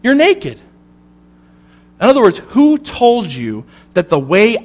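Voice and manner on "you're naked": slow, higher, searching question as God. Acted. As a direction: draw out each word, gently probing. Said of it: "And God says".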